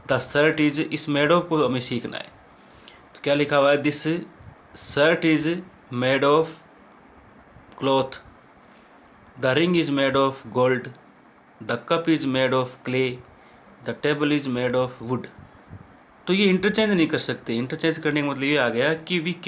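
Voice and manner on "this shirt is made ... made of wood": each word spaced out slowly like dictating notes; slow dictation. Shown as a demonstration. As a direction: read it slowly so students can copy. Dictating example sentences. (धीमी लिखवाने वाली आवाज़)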